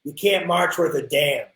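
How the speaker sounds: slow, lightly put-on harsh Michigan accent; a hint of a gruff old Michigan drum corps guy; mild mock Michigan accent, slowed down. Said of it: "in this real harsh Michigan accent".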